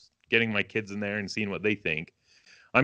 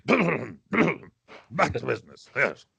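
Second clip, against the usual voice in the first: mock formal; much slower than usual.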